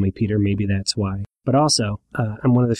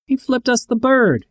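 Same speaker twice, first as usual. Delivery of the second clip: very high, slow mock yell; bully yelling again, higher and slower; 13 semitones higher, 3 dB louder than usual. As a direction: shout it up high, stretching the words. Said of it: "Seymour yelled".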